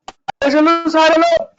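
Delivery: broken-up call audio; choppy audio. Real, not acted. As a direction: voice cutting in and out. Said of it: "आवाज cut cut के आ रही है आपकी".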